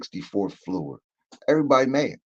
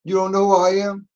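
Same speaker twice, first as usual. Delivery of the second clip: higher, fast, puffed-up threat; tough Tony; 7 semitones higher, 5 dB louder than usual. Retold or imitated. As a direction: act the tough guy at the door. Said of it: "here comes the tough Tony stuff".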